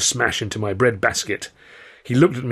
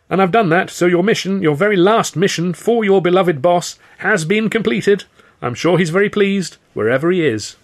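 high, loud, earnest appeal; emphatic, strained reassurance; anxious persuasion; 9 semitones higher, 6 dB louder than usual. A narrator's reading. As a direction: flatter them into leaving. Victim persuading thugs mission is done.

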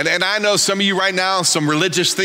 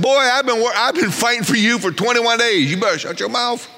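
higher, stern angel rebuke; scolding angel; 5 semitones higher than usual. Pretend. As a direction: put the boy in his place.

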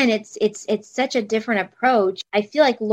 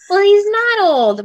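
laughing; 9 semitones higher, 8 dB louder, slower than usual. Real, not acted. Laughing defense of professor.

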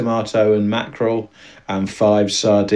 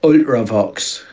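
put-on Geordie accent. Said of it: "the only two words I know how to say in Geordie".

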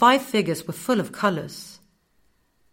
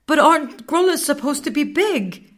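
close to tears; 9 semitones higher, 5 dB louder than usual. A narrator's reading. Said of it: "the tears were close now".

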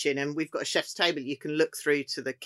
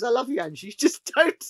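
higher, louder playful mock retort; imitating Gordon; 8 semitones higher, 4 dB louder than usual. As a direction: tease her back fondly. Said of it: "He goes".

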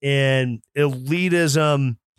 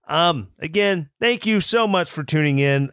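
usual speaking voice

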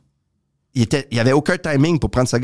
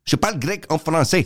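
imitating a friend's choppy French; mock choppy delivery. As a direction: break it up lightly, teasing the other's rhythm. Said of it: "t'es saccadé". (imitation légèrement saccadée)

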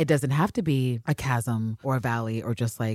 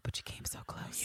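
hushed, very soft imitation of a tearful line; breathy whispered quote; 18 dB quieter than usual. Recapping Ann Lister crying, whispered. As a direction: whisper it, barely any voice.

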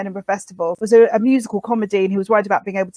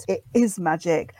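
hushed certainty; 5 semitones lower, 5 dB quieter than usual. Retold or imitated. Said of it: "we said".

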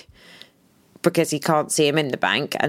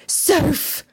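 urgent call; 11 semitones higher than usual. Retold or imitated. Husband calls her name urgently.

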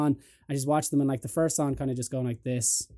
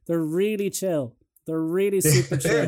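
fake reassurance; 3 semitones higher, slower than usual. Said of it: "And I was like".

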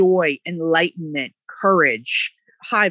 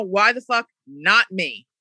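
defiant; slower than usual. Real, not acted. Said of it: "Listening to now".

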